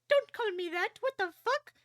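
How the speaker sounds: high, loud protest; shrill outraged yell. Retold or imitated. Neil snapping at Jean over his old name, high outraged yell. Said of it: "Neil's like".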